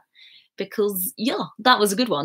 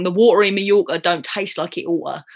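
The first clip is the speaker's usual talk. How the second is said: Cockney saying with dropped T's; Cockney accent. Shown as a demonstration. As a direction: rattle it off in East London Cockney. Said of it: "there's an old saying".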